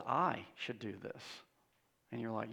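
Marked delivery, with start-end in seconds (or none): 0.1-1.2 devil's voice in first person. Acted. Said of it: "Instead, he says".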